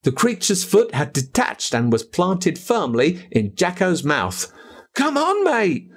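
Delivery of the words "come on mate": hurried. Acted. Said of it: "I said hurriedly".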